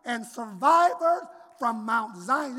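pulpit scripture reading; preacher reading; sermon reading. Acted. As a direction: read it to the congregation.

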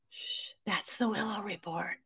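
hushed. Real, not acted. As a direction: keep it hushed for sleeping babies. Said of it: "Don't wake up the babies".

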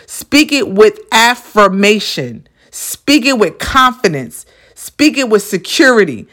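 slow, deliberate and assured; confident affirmation. Shown as a demonstration. Coach telling listeners how to address the universe, confident. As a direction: speak it slowly, with total certainty. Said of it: "That's how positive you gotta be when you speak it".

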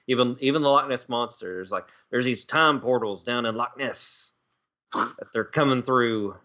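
lightly voiced conspiracy local; a hint of a convinced TV witness; mock eyewitness explaining his theory; time-portal believer. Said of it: "that's how they sound".

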